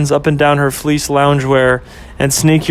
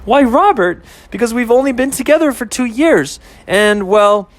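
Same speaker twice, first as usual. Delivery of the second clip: higher, hammed-up old-fashioned lady voice; mock genteel lady; 8 semitones higher than usual. Girlfriend mocking boyfriend's proposal, hammed-up genteel lady. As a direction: play the prim belle teasing him.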